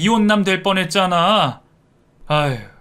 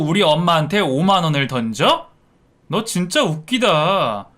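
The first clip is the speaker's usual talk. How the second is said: angry dressing-down, building to louder outbursts; furious son; 3 semitones higher, 4 dB louder than usual. Acted. Son rebuking his wife for insulting his mother, furious. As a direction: tear into her, hammering each question. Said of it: "화가 머리끝까지 났는지".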